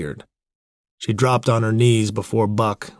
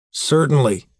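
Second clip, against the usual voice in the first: icy courtesy, pitched up; freezing politeness; 6 semitones higher, 4 dB louder than usual. A narrator's reading. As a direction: answer with cold, pointed politeness. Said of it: "said Hal with freezing politeness".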